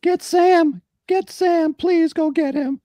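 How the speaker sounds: high, pleading panic; panicked pleading. Acted. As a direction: beg them to fetch Sam, scared. Pleading kid, acted quote.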